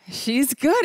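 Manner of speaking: she's good said through a laugh. Retold or imitated. The athlete answers the Prime Minister's question, laughing.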